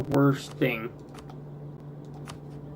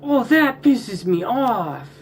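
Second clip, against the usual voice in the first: slow, drawn-out fuming; angry; 8 semitones higher, 4 dB louder, slower than usual. Real, not acted. Player venting at the game, slow and fuming. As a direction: drag it out, seething. Venting after losing his emperorship.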